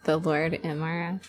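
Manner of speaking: soft hushed whisper into the mic; breathy whisper, barely voiced. Real, not acted. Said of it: "Why are you whispering?".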